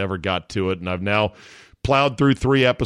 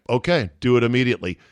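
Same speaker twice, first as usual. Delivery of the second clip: meek Gorbachev; much faster than usual. Retold or imitated. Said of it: "Gorbachev a pussy".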